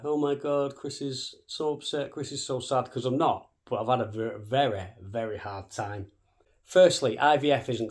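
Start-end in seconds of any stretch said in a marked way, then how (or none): 0.0-2.9 mock pity. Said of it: "Now, this isn't a".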